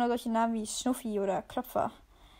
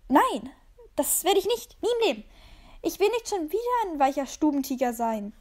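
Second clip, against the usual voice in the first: higher, louder, outraged cry; furious refusal; 4 semitones higher, 4 dB louder than usual. Acted. The cat furiously refuses to become a house cat again. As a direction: throw the refusal back at him.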